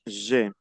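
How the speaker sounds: "je" as one syllable ending in E. Shown as a demonstration. Teacher corrects a student's reading, "je" as one syllable. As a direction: say "je" as zhe, no separate A. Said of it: "La primera se pronuncia".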